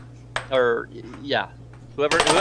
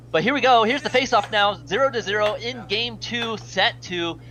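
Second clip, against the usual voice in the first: excited play-by-play; 5 semitones higher than usual. Real, not acted. Face-off play-by-play call.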